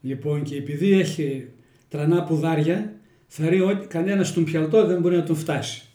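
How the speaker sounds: the hare and the tortoise told in Kozani Greek dialect; homely village fable in Kozani dialect. Shown as a demonstration. Telling the next fable to the interviewer, in Kozani dialect. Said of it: "Στα κοζανίτικα".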